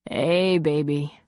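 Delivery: slow, low and intimate; low sexy voice.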